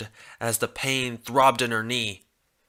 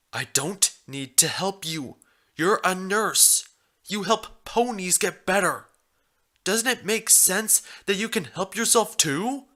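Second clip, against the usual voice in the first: stubborn stallion voice; 7 semitones higher than usual. Acted. Stallion argues.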